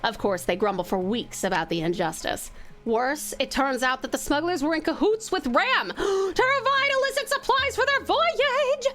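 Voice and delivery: measured storyteller reading; story narration. Acted. Streamer reading game events to chat, storyteller narration.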